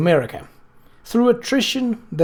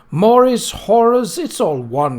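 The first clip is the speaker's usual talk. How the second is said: higher, louder, a sharp indignant retort; a prim widow snapping at her sister, higher and louder; snapped; 6 semitones higher, 4 dB louder than usual. Acted. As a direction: bite off the names, then dismiss them. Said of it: "she snapped".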